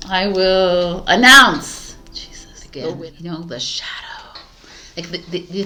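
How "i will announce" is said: giggling through the words; can't stop laughing mid-line. Real, not acted. Laughing fit while recording.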